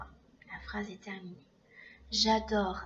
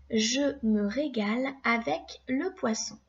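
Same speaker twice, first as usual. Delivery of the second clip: dictation read. Shown as a demonstration. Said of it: "on commence par la première phrase".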